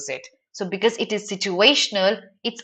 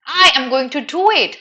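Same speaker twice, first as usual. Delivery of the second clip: proper formal; 4 semitones higher than usual. Shown as a demonstration. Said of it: "How did it sound? Very proper".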